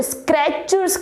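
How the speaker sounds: Skechers with an extra r, 'skrechers'; common mispronunciation. Retold or imitated. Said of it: "It's not a Skechers". (Skechersનો ખોટો ઉચ્ચાર, 'સ્ક્રેચર્સ')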